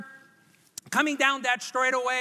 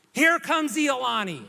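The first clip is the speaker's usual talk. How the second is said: excited announcement. Acted. Crowd arrives, shouted.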